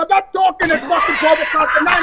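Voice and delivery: re-enacted irritated outburst; exasperated refusal. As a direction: snap back at a roommate who woke you. Retold angry reply to roommate.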